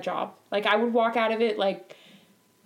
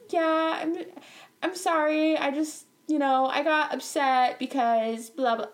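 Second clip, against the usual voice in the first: hesitant, higher-pitched mock apology; fake apology; 4 semitones higher than usual. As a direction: act out a halting, insincere sorry. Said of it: "give me some fake apology".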